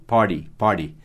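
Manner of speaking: "party" with the T as a quick tapped r, "pardi"; flapped T. Shown as a demonstration. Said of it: "Esse T aí tem som de ra". ("party" com o T soando como um r rápido)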